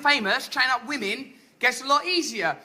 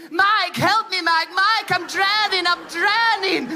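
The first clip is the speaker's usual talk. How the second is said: hammy panicked cries for help; overacted drowning panic; mock drowning plea; 4 semitones higher than usual. Pleading to surf instructor in sea.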